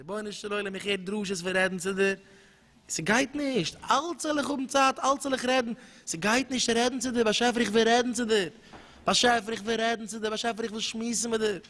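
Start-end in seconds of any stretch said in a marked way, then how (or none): 2.9-11.6 higher, insistent plea to God; a child crying out to his father; pleading prayer. Acted. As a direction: beg as if calling for mama.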